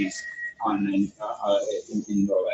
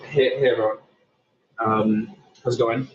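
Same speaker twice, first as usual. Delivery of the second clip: talking from inside a noisy tunnel; phone call from a tunnel with echo. Real, not acted. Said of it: "I'm, uh, in a tunnel right now, so it's a bit loud".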